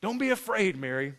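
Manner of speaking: toned-down, lightly voiced angel; calm angel's reassurance. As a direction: reassure gently, falling away at the name. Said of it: "the angel told her".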